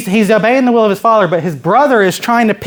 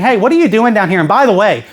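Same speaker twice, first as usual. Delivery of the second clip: put-on mildly needling older brother; lightly acted scolding questions; picking him apart; 3 semitones higher than usual. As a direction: nag him a little, picking at faults. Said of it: "starts picking him apart".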